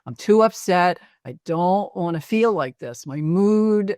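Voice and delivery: retold upset yelling. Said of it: "like, yelling loudly".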